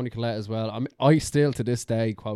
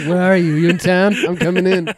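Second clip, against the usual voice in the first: eager reply; 7 semitones higher, 14 dB louder than usual. Retold or imitated. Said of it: "and then he's like".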